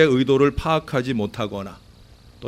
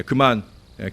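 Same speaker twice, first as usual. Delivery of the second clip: usual speaking voice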